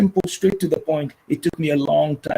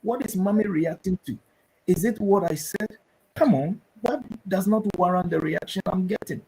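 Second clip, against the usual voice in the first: put-on puzzled child; 5 semitones higher, 6 dB quieter than usual. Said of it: "So the child will like".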